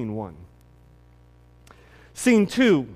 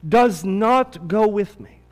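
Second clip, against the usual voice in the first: measured, solemn Bible reading, slowing at the pleas; scripture reading. Acted. Pastor reads scripture to the church, solemn and measured. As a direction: read the passage to the congregation with gravity. Reads the Exodus passage aloud.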